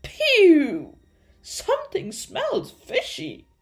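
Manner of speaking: high, loud blurt; shrill-pitched comic revulsion; blurted disgust. A narrator's reading. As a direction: blurt it out, reeling from the stink. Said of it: "he blurted".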